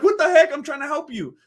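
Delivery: lightly acted indignant protest; high, loud start, dropping off in exasperation; George Costanza. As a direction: mimic an offended would-be helper. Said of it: "George was like".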